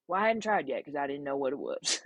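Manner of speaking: lightly voiced country accent; mock country caller, matter-of-fact; country accent with an innocent explanation. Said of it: "kinda country accent".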